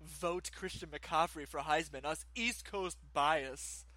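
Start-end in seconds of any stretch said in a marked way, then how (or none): 0.0-2.0 slow, haughty snob voice; pompous voice. Acted. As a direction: look down your nose at them. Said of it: "That was my pompous voice".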